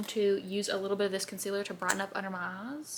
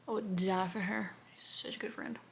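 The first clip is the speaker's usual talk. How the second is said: whispered aside; 6 dB quieter than usual. Real, not acted. Aside about friend Brielle.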